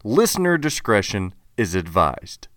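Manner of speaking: measured content-warning read; formal advisory, slowing on the last line; disclaimer announcer. Acted.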